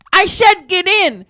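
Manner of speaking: high, drawn-out mock command; slow, high-pitched insistence; exasperated order. Old lady insisting he board, exasperated.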